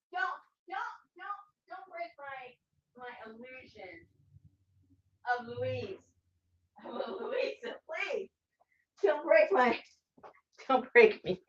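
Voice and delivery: soft, hushed mock pleading; mock plea. Host begging the co-host not to spoil her idol, hushed. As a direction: beg softly, half joking.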